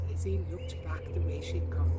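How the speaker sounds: whispered narration. A narrator's reading. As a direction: breathe the line as a whisper.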